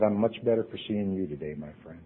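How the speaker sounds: soft, quiet and sincere; Jimmy tenderly answering a suicidal friend; warm reply. Retold or imitated. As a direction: tell him gently he matters.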